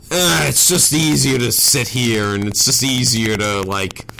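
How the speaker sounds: lightly voiced complacent voice in the head; complacent inner voice. Voicing own inner voice that argues for doing nothing, complacent. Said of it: "your voice changed".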